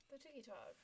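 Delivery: breathy whispered echo. Pretend. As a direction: whisper it back. Echoes the whisper.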